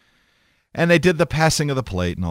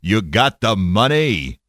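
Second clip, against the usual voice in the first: slow, big booming voice of God; mock-booming divine pronouncement, drawn out; Charlton Heston; 2 semitones lower, slower than usual. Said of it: "in that big booming voice of his".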